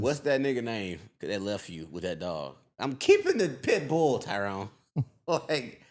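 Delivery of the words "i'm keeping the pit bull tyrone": put-on defiant girlfriend. Girl voiced in breakup scene.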